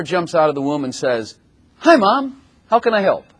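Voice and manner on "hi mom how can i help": put-on high, bright little-baby greeting; mock newborn voice. Preacher mocking a polite newborn, high piping baby voice. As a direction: play a sweet baby offering to help.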